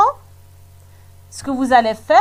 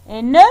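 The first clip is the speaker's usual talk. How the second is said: "ne" as a lone final syllable. Shown as a demonstration. Teacher shows the third syllable, "ne" said separately. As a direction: sound out "ne" on its own. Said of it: "la troisième syllabe".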